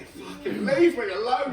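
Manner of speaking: drawn-out, joking fed-up plea; mock exasperation. Comic telling pestering fans off, mock exasperation.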